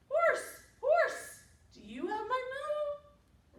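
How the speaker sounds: high, loud calling question; cow asking. A narrator's reading. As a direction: call out to the horse, pitched right up. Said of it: "she asked the horsey".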